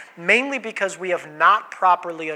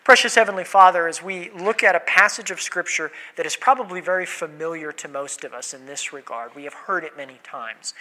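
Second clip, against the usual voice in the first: prayer. Acted. Leads opening prayer.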